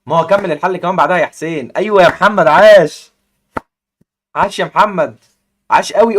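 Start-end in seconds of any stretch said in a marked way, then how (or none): 1.8-6.2 loud shouted cheer, higher; shouting encouragement at Mohamed. Real, not acted. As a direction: yell it like a fan in the stands. Cheering the player on.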